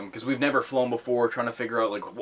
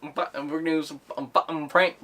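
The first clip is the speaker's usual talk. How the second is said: put-on much higher stammering kid brag; bratty kid voice; 6 semitones higher, 4 dB louder than usual. Kid host brags about prank calls, high stammering brag. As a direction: stutter it like a swaggering ten-year-old. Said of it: "ten-year-old kid being like".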